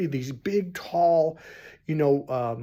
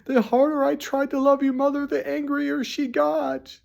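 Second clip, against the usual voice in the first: imitated crying; 11 semitones higher, 3 dB louder than usual. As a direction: play the weeping father pleading his case, pitched way up. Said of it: "he was just crying".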